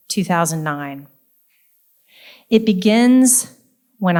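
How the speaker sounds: measured poem recital with deliberate pauses between phrases; poetry reading. Acted. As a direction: read it as a poem, lingering on line endings. Reads own poem aloud.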